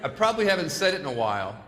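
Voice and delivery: gentle, lightly sincere lines for the crowd to copy; sincere affirmation. Shown as a demonstration. Leading the crowd in repeat-after-me, lightly sincere and warm. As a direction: say it like you mean it to their face. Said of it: "I say it, you repeat it".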